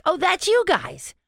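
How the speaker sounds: light up on recognizing them; delighted recognition. Retold or imitated. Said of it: "she was like".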